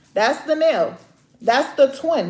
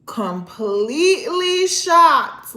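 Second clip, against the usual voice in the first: shocked; 6 semitones higher, 6 dB louder, much slower than usual. Real, not acted. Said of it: "I'm shocked".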